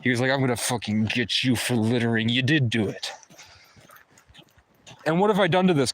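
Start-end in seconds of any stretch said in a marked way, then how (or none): 0.3-3.1 mild mock cartoon cop voice; crazy cartoon character. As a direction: lightly mimic a cartoonish bully. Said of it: "like a crazy cartoon character".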